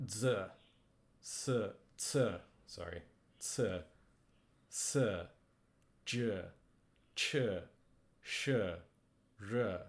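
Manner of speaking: each of "Z", "S", "T", "J", "Ch", "Sh", "R" ends in a buzzed vowel, not an e; letters said one by one with the buzzy i; buzzed i after retroflex consonants. Shown as a demonstration. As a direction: hold the tongue back and let the vowel buzz. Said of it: "sound changes to something like this".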